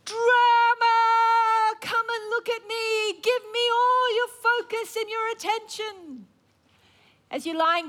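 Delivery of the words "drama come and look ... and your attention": much higher, louder mocking tempter; sing-song lure demanding attention; voice of drama. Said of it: "It's called drama".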